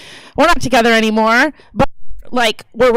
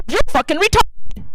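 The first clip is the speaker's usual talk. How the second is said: higher-pitched angry outburst; retold fury; 5 semitones higher than usual. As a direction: act out blowing up at someone. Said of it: "I was so mad".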